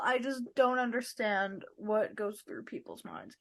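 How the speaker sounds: dismayed whisper. Real, not acted. Co-host reacting to the story, a dismayed whisper. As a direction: breathe it out in hushed dismay.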